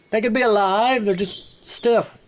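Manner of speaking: slow, drawn-out deadpan; deadpan joke. Pretend. Player joking about statues in a slow deadpan. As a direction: drag out the word stiff for a joke. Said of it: "What do you mean alive?".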